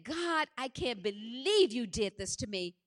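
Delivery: mildly acted anger at God; retold angry reproach. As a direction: reproach God, with a touch of outrage. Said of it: "I was so angry".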